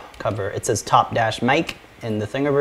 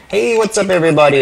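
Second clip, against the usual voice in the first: voice changer; 7 semitones higher, 6 dB louder, faster than usual. Shown as a demonstration. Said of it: "use the buttons to change the voice".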